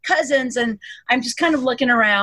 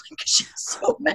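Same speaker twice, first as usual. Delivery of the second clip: a laugh breathed into a whisper; 5 semitones higher, 6 dB quieter than usual. Real, not acted. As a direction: giggle it under your breath. Laughing whisper about mom's anger.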